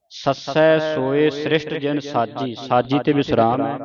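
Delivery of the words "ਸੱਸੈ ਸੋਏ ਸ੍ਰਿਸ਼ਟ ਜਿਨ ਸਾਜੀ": slow, measured recitation. Shown as a demonstration. Teacher reciting scripture for a student. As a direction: recite the line slowly with care.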